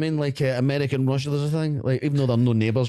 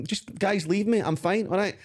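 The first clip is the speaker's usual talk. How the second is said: dismissive; 8 semitones higher than usual. Retold or imitated. Drunk dismissive reply.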